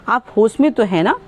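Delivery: mildly irritated question; a bit angry. Shown as a demonstration. Teacher showing a student a slightly angry question. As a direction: ask it with a touch of anger. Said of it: "थोड़ा सा क्रोध में अगर बोलेंगे तो".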